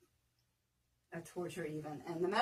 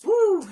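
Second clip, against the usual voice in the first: loud high whoop of relief; 12 semitones higher, 15 dB louder than usual. Real, not acted. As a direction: whoop after the last rep. Finishing exercise set.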